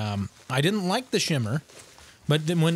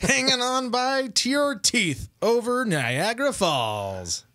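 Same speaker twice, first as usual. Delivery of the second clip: mock wail; 7 semitones higher, slower than usual. Teaser read, wailing.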